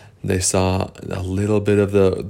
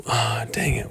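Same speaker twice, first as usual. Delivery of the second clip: whispered dang it; 7 dB quieter than usual. Acted. Character frustrated whispering.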